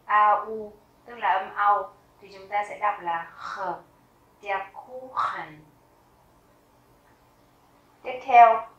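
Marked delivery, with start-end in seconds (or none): 4.4-5.6 Kuchen with a long drawn-out U and CH as a throaty kh; slow "Kuchen", hold the U. Shown as a demonstration. Teacher showing learners the long U, long-vowel demo. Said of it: "Âm U chúng ta đọc dài".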